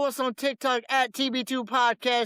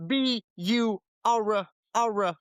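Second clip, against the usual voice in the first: spelled-out name; slower than usual. Shown as a demonstration. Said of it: "If you're gonna spell it out".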